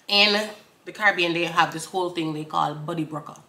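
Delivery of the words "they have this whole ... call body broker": normal talking voice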